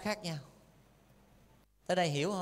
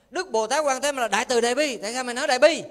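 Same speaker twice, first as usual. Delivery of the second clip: raised-voice challenge in a pretend dispute; louder, hammed-up objection; mock arguing; 3 semitones higher, 4 dB louder, faster than usual. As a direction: demand an explanation, playfully combative. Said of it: "mai mốt cãi lộn chứ".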